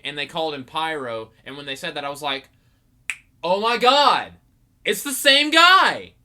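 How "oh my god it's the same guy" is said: high, loud replayed outburst of amazement; shocked recognition. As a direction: shout it as the realization hits. Retells shocked recognition of Pyro.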